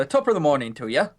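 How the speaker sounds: quick Irish trigger phrase; Irish accent. Shown as a demonstration. Friend shows a trigger sentence for the accent, quick Irish accent. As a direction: rattle off a stock Irish greeting. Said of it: "you need to have a trigger sentence".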